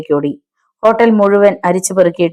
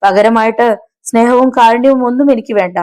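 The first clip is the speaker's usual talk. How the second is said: high-pitched, desperate begging; loud wailing plea; 6 semitones higher than usual. A narrator's reading. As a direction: beg the gunman for your life. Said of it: "Thampi ഉറക്കെ നിലവിളിച്ചു".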